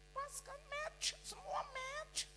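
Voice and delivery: voice of God. Acted. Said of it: "Tuhan bilang".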